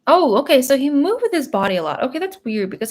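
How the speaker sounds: loud, high and fast, a burst of realization; sudden excited realization. Real, not acted. Psychic suddenly grasping what the dog shows, excited. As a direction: blurt it out as it clicks.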